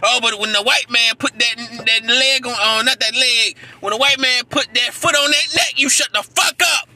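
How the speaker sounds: loud, heated rant; real anger, loud; angry. Real, not acted. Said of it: "I'm just angry right now".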